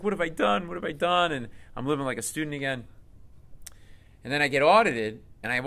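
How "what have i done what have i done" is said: much higher, rising alarm; a hint of real panic, voice jumping up; panicked self-question. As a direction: ask yourself in a sudden panic. Panicked inner thought after IRS audit.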